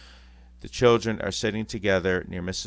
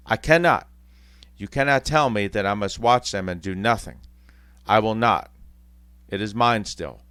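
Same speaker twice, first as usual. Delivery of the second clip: desperate protest; 7 dB louder than usual. Acted. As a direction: refuse with all he has. Scrooge protests to spirit.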